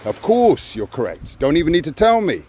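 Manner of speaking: assured, as if it is your due; breezily certain, needing no confirmation; entitled. Shown as a demonstration. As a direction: demonstrate total entitlement. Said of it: "with entitlement".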